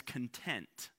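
content with the stress on TENT; stress on second syllable. Shown as a demonstration. Preacher linking it to box contents, content stressed on TENT. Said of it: "different emphasis".

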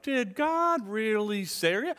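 slow, insinuating question; doubt-sowing serpent. Retold or imitated. Serpent twisting God's word to Eve, slow and sly. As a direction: drag it out to plant doubt. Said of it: "he makes it already sound like".

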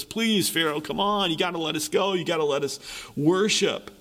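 mildly imitated begging to the king; a hint of pleading servants; understated groveling plea. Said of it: "reduces Moses and Aaron to groveling".

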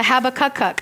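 "Habakkuk" as HAB-uh-kuk-kuk; butchered pronunciation. Shown as a demonstration. Preacher unsure of the prophet's name, "Habakkuk" stretched by a repeated last syllable. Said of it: "butchering the spell, the, the way we say it".

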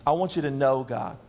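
low voice, "know" given full weight; stress on know. Shown as a demonstration. Preacher repeats his core message to the church, stressing "know". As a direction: dwell on the word "know", keep it low. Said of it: "emphasis on the word know".

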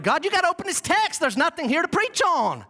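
high-pitched plea to God; retold urgent prayer. Preacher retelling his prayer over a train wreck message, high urgent plea. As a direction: plead upward, acting out the prayer. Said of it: "and I just prayed".

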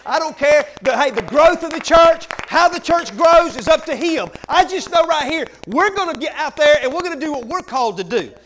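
loud, driving preaching. Real, not acted. Pastor rallying his congregation, loud fervent preaching. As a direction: drive it home to the church.

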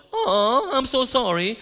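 high, loud, laughing mock sympathy; mocking himself. Preacher mocks his own empty reply to the kid, laughing. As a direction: parody your own lame reply with a laugh. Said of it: "Like, duh, right?".

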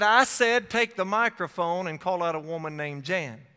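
an inner voice that won't take no; insistent repeat. Retold or imitated. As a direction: repeat the command emphatically, hitting "I said" hard. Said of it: "It repeated itself".

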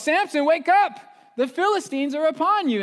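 high, loud shouted warning; yell. Retold or imitated. Delilah yelling to wake Samson. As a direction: yell him awake in mock panic. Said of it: "she yells".

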